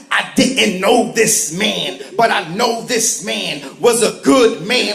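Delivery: slow preacher parody. Retold or imitated.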